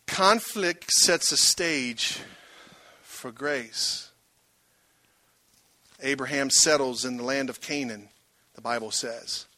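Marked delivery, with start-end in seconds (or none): 0.1-4.1 slow emphatic repeat. Shown as a demonstration. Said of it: "point repeated slower".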